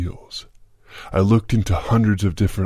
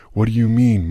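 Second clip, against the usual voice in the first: feigned puzzlement; 4 semitones higher, 4 dB louder than usual. Acted. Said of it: "acting puzzled".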